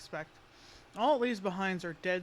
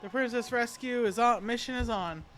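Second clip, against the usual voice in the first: excited; 4 semitones higher, 5 dB louder than usual. Real, not acted. Rallying the team for rescue.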